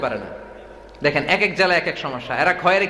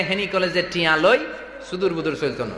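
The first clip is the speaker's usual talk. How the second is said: mock Noakhali slogan; 3 dB quieter than usual. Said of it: "ওরা মিছিল দেয়".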